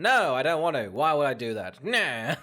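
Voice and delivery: loud, flat-out refusal, mock indignant; blunt refusal. Mocking the comedian refusing a hug, loud and blunt. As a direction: shut her down bluntly and loudly.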